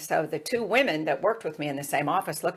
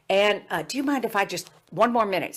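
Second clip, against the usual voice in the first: higher, courteous Southern request; Jim Hickson, Southern accent; 5 semitones higher than usual. Retold or imitated. Student begs one more minute, Southern accent. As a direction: imitate a polite Southerner asking a favor. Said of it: "he had this Southern accent".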